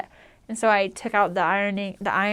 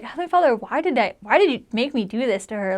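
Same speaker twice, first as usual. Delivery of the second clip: mildly exasperated plea, pitched up at the start; pleading prayer. Retold or imitated. Upset missionary asks Heavenly Father why, pleading.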